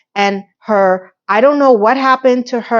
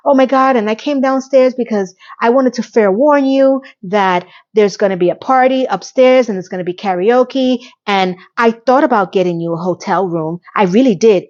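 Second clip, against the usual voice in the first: giddy and happy. Retold or imitated. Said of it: "all giddy and gay and happy".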